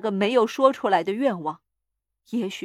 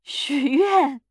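loud, high, insistent cry; raised, demanding shout; insistent command; 5 semitones higher, 6 dB louder than usual. A narrator's reading. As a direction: press the order forcefully. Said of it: "他妻子又说".

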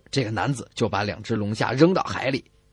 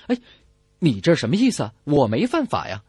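higher, indignant voice of a man denying everything; defiant lobster poacher; 10 semitones higher than usual. Acted. Radio host voicing the poacher arguing with the patrolman, indignant and higher. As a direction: play the caught man protesting his innocence. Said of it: "这个男子并不认错，说".

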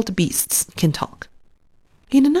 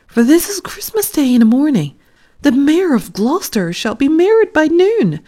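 put-on much higher, louder, pleading old man; old tailor's lament; 9 semitones higher, 4 dB louder than usual. A narrator's reading. The poor tailor fretting over the Mayor's coat, high anxious lament. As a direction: cry out in worry over the unfinished coat. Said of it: "said the tailor".

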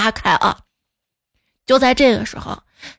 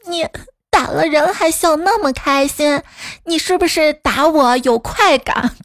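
lightly voiced indignant little girl, higher pitch; 小萝莉口吻; 4 semitones higher than usual. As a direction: accuse mum like a small child. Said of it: "小萝莉接着来了一句". (学小女孩委屈质问)

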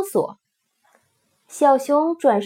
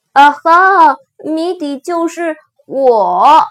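excited shout; 4 semitones higher, 8 dB louder, slower than usual. Acted. Joyful riddle answer.

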